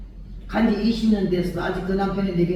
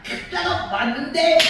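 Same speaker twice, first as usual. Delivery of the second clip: imitating her old shouting habit; mock shouting; 8 semitones higher than usual. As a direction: insist at the top of her voice. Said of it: "말할 때마다".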